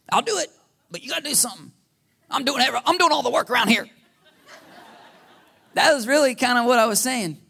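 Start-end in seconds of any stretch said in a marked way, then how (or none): 0.1-3.9 frustrated complaint. Retold or imitated. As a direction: throw the blame back at God, exasperated. Throwing it back.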